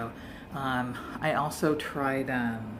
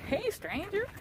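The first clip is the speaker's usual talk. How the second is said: high sing-song "Hey, stranger"; calling out; slower than usual. Retold or imitated. Retelling an old friend calling out, lightly voiced high greeting. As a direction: call out like a surprised old friend. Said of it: "I hear this".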